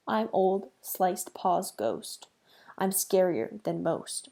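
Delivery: slow, spooky ghost chant; lightly voiced ghost taunting its prey; scary ghost voice. Cat ghost taunting the frightened mouse, slow and spooky. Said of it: "in a scary voice".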